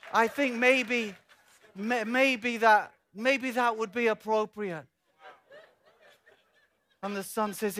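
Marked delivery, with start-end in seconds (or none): 0.1-4.9 slow, halting, tentative agreement; mock hesitation. The Son cautiously agreeing to the short side, hesitant. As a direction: weigh it up with drawn-out, repeated maybes.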